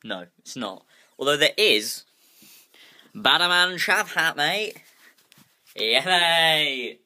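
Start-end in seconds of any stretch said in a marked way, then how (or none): 3.1-7.0 mock chav. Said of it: "you know how chavs".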